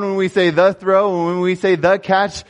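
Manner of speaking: rally the team behind the words; rousing coach. Retold or imitated. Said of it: "He says".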